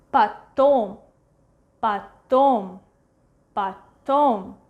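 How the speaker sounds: "Потом" said pa-TOM, stress on the second syllable; "Потом" as pa-TOM, clearly for learners; unstressed O as A. Shown as a demonstration. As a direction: model "Потом" with first O reduced to A. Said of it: "this one we pronounce as A".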